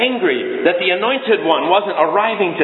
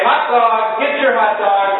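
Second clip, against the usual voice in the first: 1 vendor call; 5 semitones higher than usual. Shown as a demonstration. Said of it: "Someone say".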